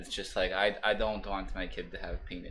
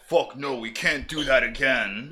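mock Israeli voice; 4 semitones higher, 6 dB louder, slower than usual.

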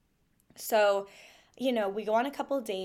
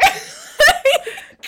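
laugh; 11 dB louder than usual. Real, not acted. Laughing at her own story.

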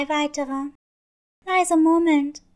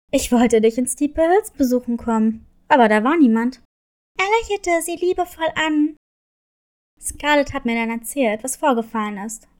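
low, warm fatherly voice; a proud dad explaining himself; father Leo; 4 semitones lower, faster than usual. Acted.

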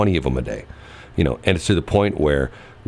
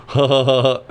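robotic fake laugh; 7 semitones higher, 3 dB louder than usual. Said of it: "come back and go".

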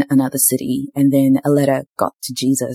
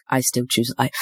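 monotone; 6 dB quieter than usual. Retold or imitated. Choosing life on hard days, in a drained monotone. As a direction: say it like you're running on empty, no lift at all. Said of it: "said in a monotone voice".

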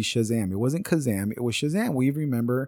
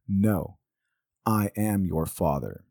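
Darth Vader; 2 semitones lower, slower than usual. Retold or imitated. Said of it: "what Darth Vader actually says".

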